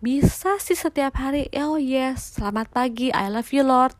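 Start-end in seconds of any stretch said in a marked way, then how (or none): 1.5-3.9 casual routine. Retold or imitated. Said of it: "udah gitu, udah aja".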